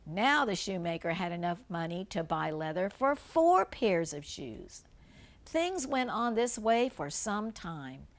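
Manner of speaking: gentle storybook read-aloud; reading a fairy tale to young children; story narration. Acted. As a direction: read it like a bedtime tale for kids.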